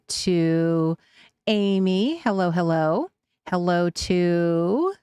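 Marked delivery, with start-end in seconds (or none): none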